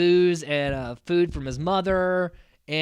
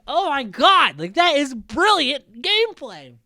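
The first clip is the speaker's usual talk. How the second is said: retold amazement; 10 semitones higher, 7 dB louder than usual. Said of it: "And I'm like".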